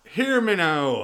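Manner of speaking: high, bad Geordie accent sliding into Jamaican. Announcing the next guest on stage in a comedy bit, bad Geordie accent. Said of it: "That's still not Geordie".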